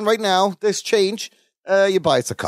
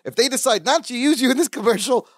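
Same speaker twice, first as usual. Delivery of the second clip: higher-pitched, lightly acted diva ultimatum; mock diva; 5 semitones higher than usual. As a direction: imitate a diva threatening to quit. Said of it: "Just continuing his diva-ness".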